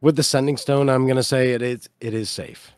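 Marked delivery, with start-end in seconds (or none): 1.5-2.7 Nook's voice. Acted. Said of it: "I'm gonna try to mimic Nook's voice".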